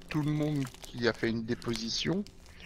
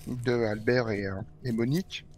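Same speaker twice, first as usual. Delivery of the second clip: talking while munching chips; words around a mouthful of chips; crunching chips. Real, not acted. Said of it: "je mange des chips en même temps".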